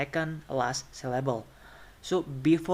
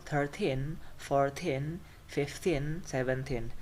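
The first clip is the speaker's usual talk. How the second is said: thirTEEN, fourTEEN, fifTEEN, sevenTEEN; weight the teen ending in thirteen and fourteen; stress on teen. Shown as a demonstration. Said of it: "pronounced with the stress on thin".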